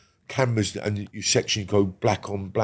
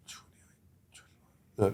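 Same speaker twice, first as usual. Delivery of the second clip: whispered counting; 8 dB quieter, much slower than usual. Retold or imitated. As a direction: count the years to yourself in disbelief. Counting his years alone in cell.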